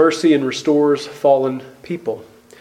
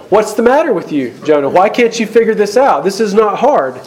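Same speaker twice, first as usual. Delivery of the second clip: exasperated scolding; 5 semitones higher than usual. Retold or imitated. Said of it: "we're getting angry at Jonah".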